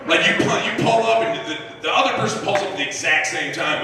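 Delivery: usual speaking voice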